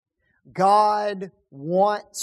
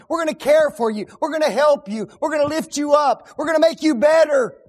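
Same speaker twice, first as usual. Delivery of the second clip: mock politician promises; 5 semitones higher, 3 dB louder, faster than usual. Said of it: "They'll make promise after promise".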